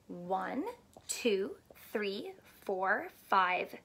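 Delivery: counting under the breath, whispering two three; soft counting. Acted. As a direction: hush the numbers as you count along. Counting cookies softly to kids.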